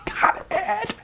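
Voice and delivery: high, jubilant cry; overjoyed shout; joyful shout. A narrator's reading. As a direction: burst out with the news. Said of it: "and shouted".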